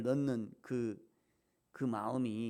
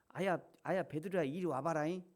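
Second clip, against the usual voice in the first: Jeolla dialect; 4 semitones higher than usual. Retold or imitated. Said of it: "전라도 사투리를 막 써요".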